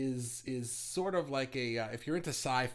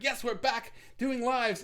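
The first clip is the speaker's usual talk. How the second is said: high, slow, excited announcement; mock cheer; 10 semitones higher, 4 dB louder, slower than usual. Host mock-announcing his return to viewers, high and slow. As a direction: sing out the big comeback news. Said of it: "be like".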